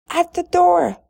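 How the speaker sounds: high, loud excited scream. A narrator's reading. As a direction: shriek the news. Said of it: "screamed the other stepsister".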